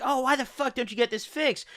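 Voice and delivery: high, softish imitation of her nagging; mock pissed off. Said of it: "like, she was pissed".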